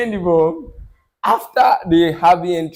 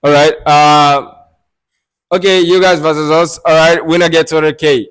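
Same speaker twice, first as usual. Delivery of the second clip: announcing; 6 dB louder than usual. Retold or imitated. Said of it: "this was what he said".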